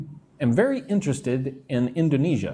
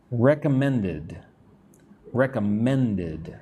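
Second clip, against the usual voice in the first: "Recommended" slow, weight on "men"; stress on MEN; slower than usual. Shown as a demonstration. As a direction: lean on the third syllable, recom-MEN-ded. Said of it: "men is where you put the strength".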